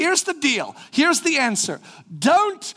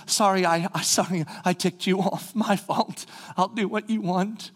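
softer, mumbled mock apology to the old master; sheepish apology; 3 semitones lower, 4 dB quieter than usual. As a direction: grovel meekly, voice dropping. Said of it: "the easy part is just to say".

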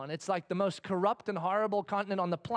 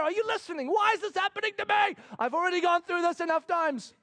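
mock whiny complainers; 8 semitones higher than usual. God imitating complaining people.

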